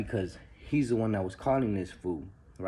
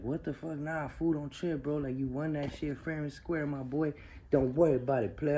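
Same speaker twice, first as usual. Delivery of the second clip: imitating the other player; 6 semitones higher than usual. Cellmate refusing the winnings.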